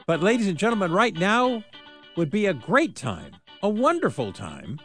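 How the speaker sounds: upbeat radio contest pitch; radio contest promo. Acted. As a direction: hype the ticket giveaway to callers. Contest call to listeners.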